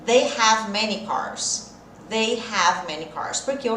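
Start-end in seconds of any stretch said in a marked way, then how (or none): 0.1-1.7 each word laid out slowly for students to copy; patient slow demo pace; slow model answer. Shown as a demonstration. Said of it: "Já treinou a sua fala hoje?".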